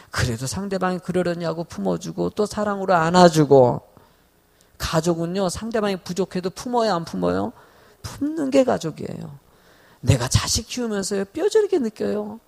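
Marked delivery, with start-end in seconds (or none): none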